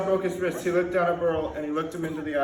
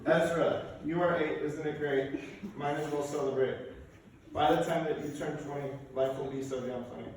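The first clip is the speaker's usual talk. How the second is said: rhymed tribute poem; 2 semitones lower, 7 dB quieter than usual. Acted. Speaker reads a rhyme to an eight-year-old in a family speech, soft poem reading. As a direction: read a short verse gently, softening line by line.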